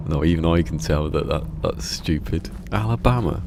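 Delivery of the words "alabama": louder, higher Deep South "Alabama"; hammed-up deep south accent, pitched up. Streamer mimicking the proper deep south, hammed-up Southern accent. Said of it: "the proper deep south Alabama".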